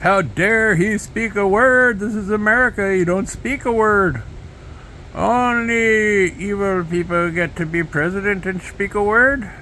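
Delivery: high, loud, slow mock fury; mock outraged Trump. Mocking Trump's outrage at the judge, high and slow. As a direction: rant like a pompous wounded leader.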